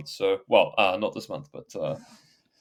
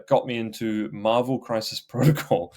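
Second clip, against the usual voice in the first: stifled laugh. Real, not acted. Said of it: "I'm trying not to laugh as I say it now".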